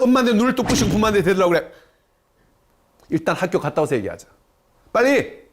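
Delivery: imitating an exasperated mother scolding her child, rising to a fast outburst; scolding mom. Mother scolds her child about the messy room, mock scolding. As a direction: play the fed-up mom, mildly hammed-up. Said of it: "이렇게 하면서 절 잔소리예요".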